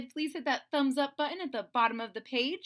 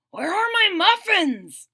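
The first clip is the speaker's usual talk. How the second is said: loud, slow booming dragon voice; rumbling dragon; 7 semitones higher, 12 dB louder than usual. A narrator's reading. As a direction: roar it out like a hungry dragon. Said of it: "he rumbled".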